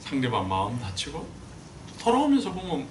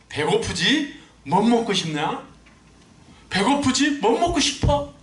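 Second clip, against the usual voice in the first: a light, higher, friendly offer of food; kind father asking; 9 semitones higher, 6 dB louder, slower than usual. Retold or imitated. Preacher voicing the professor's advice to the father, gently. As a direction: ask like a caring dad. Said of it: "얘 딱 만나면 다른 말 하지 말고".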